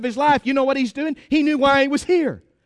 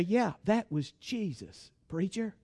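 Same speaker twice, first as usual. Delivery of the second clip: low, very soft mock objection; imitated quiet objection; 4 semitones lower, 12 dB quieter than usual. Church member objecting to the preacher, imitated quiet doubt. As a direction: murmur it low, like a reluctant churchgoer.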